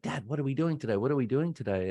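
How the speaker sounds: a hint of a four-year-old pestering; little kid voice. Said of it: "And he'd be like".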